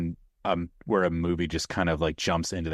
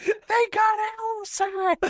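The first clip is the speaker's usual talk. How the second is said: very high, slow mock terror; panicked shriek. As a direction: scream it in horror. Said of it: "And then they're like".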